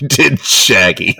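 words broken by laughter; laughing. Real, not acted. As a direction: laugh through it. Laughing mid-sentence.

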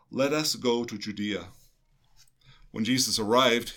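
measured proclamation of scripture; gospel reading. Acted. Reading the gospel aloud to listeners, measured proclamation. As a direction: read the gospel steadily, like at the ambo.

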